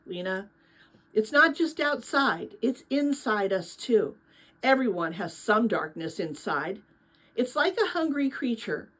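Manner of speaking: steady storytelling voice reading a novel aloud; story narration. A narrator's reading. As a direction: read it like a bedtime chapter book.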